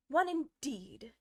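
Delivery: a lightly voiced indignant huff. A narrator's reading. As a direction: scoff at the doubt. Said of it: "said the Dormouse indignantly".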